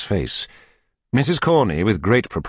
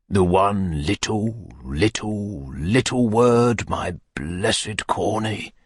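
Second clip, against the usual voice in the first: tender plea; much slower than usual. Acted. Beadle pleading tenderly.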